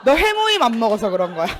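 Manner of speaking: mock icy scolding; cold mother. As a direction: imitate mom coldly laying blame. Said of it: "정말 싸늘하게".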